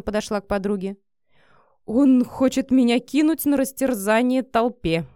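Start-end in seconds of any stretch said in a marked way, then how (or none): 1.8-5.1 a mild acted moan of despair; lightly voiced despairing moan. A narrator's reading. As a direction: groan the words out, hurt and cornered. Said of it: "простонала Вика".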